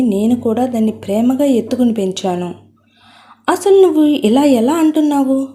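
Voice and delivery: shouting at his mother in shock and rage; angry shout. Acted. Son shouting angrily at his mother over the marriage idea, furious. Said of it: "గట్టిగా అరుస్తూ".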